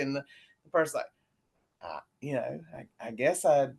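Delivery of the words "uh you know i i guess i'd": mildly hesitant mock answer; halting, unsure interviewee imitation; imitating clueless interviewees. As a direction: fumble for an answer, a touch subdued. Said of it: "that's what they sound like".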